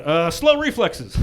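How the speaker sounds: stalling, drawn-out reply; slow, awkward punchline delivery; slow hesitant answer. Retold or imitated. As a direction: drag it out as a joke answer. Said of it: "And I went".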